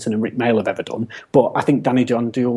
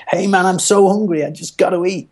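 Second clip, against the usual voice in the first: higher-pitched, lively cartoonish Cat; Cat impression; 7 semitones higher than usual. Podcaster quoting the hungry Cat to friends, high-voiced impression. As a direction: put on the Cat's high voice. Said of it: "Kat comes in and he's like".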